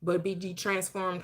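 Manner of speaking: slow, measured reading of a Bible verse; scripture recitation. Acted. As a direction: recite it like holy text, unhurried.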